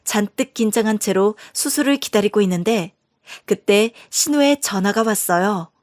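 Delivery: ordinary delivery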